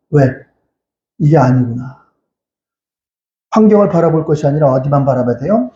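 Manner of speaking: normal talking voice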